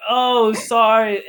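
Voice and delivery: high, drawn-out "oh, sorry"; retold apology. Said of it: "And she's like".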